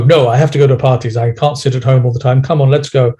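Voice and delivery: brisk, pushing yourself out the door; mock impatient nagging at a scared part; pushy self-talk. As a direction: hurry yourself along impatiently. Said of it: "you don't go".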